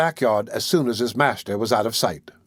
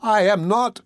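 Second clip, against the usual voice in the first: put-on high, frightened boy insisting; alarmed denial; 7 semitones higher, slower than usual. A narrator's reading. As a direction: Oliver denies it to the women, high and alarmed. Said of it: "replied Oliver, greatly alarmed".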